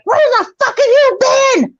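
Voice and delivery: high-pitched mock scream; screaming mom. Mom screaming at her late child, mock high-pitched scream. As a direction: imitate a furious mother's shrill outburst. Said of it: "my mom starts screaming at me".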